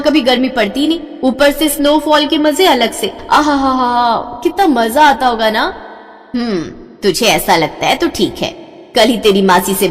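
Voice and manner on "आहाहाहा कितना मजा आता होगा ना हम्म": dreamy delight. Acted. Dreamy about snowy hills.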